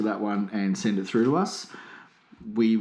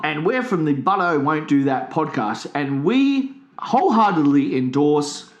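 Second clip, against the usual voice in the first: ad read; 3 dB louder than usual. Pretend. Mock endorsement ad read.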